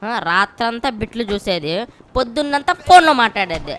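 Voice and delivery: scolding a lazy worker; scolding rant. Acted. Scolding someone on the phone.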